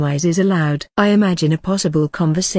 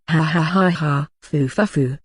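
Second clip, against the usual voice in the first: maniacal laugh. Acted. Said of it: "I start laughing while coming close to the enemy".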